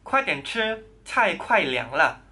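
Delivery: slow, clear Mandarin model line; slow model sentence. Shown as a demonstration. Teacher models 快点吃 for students, slow and clear. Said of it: "Kuai dian chi, cai kuai liang le".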